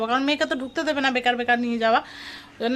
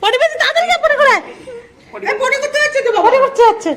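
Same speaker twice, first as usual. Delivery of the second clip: high, louder, laughing through the words; 11 semitones higher, 5 dB louder, faster than usual. Real, not acted. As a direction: giggle it out as the doll falls. Toddler drops doll, mother laughing.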